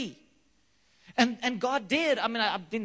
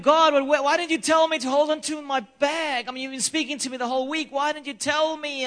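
louder, higher pleading cry to God; desperate complaint; 5 semitones higher, 4 dB louder than usual. Retold or imitated. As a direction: protest to God, stammering at first. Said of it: "And I was like".

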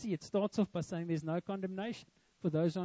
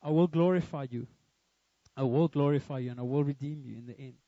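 low, firm declaration as God, lightly voiced; 6 semitones lower than usual. Preacher voicing God's promise to the congregation, low and solemn. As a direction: deliver God's promise in a lower, emphatic voice. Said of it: "God says".

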